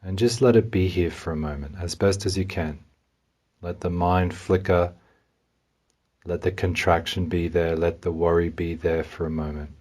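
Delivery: calm, unhurried guidance with long pauses; guided meditation. Real, not acted. Meditation guide helps listener notice anxiety in the body, calmly. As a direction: gently lead a listener inward, leaving room to feel.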